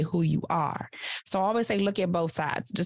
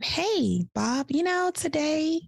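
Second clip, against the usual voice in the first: bright, smiling greeting to the boss; 9 semitones higher, much slower than usual. Shown as a demonstration. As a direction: say it with a smile. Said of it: "you see the difference?".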